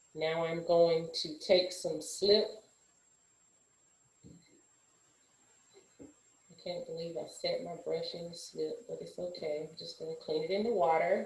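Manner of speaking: soft, low-volume quiet talk. Narrating a clay-working demonstration step by step: speaking quietly. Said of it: "I'm talking a little bit low".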